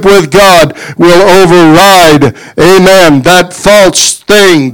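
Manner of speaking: a touch of rising preacher fervor; preaching. Acted. Preacher to congregation, building preaching fervor.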